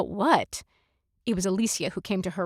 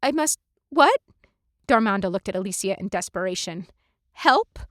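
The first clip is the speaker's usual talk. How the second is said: panicked question to her friend; lightly voiced flustered woman; 3 dB louder than usual. Darmonda asks Alicia for help, lightly panicked.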